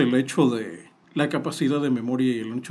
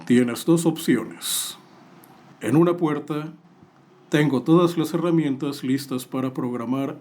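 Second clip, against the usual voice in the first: lightly voiced horror movie killer; a hint of a slasher villain's taunt; Jigsaw killer voice. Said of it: "vuelvo a ser la voz del asesino de Jigsaw".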